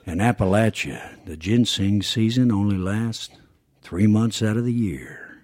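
husky documentary narrator with a southern tonality; measured TV narration, dipping down into the husk; southern-tinged narration. Shown as a demonstration. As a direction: narrate it slightly southern, slowing into a husky finish. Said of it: "with the southern, uh, tonality to it".

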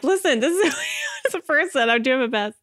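high, pleading defence with a laugh; lightly hammed-up exasperated reply to complainers; mock-exasperated plea. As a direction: play being put upon, half-joking. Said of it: "And I'm like".

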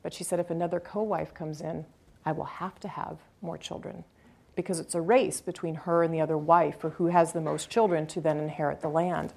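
quiet, heavy-hearted retelling; somber. Retold or imitated. Mother explaining the co-wife race for land, quiet and somber. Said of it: "she got very somber".

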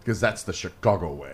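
low, slow tough-guy growl; a hint of a movie gangster. Quoting The Untouchables line.

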